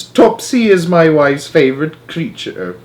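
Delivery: slow, loud distressed voice; distressed father. Acted. Jenkins distressed.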